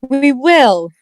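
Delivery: earnest Fairy Queen. Acted. Fairy Queen pledges help to Claus, earnest. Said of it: "said the Fairy Queen earnestly".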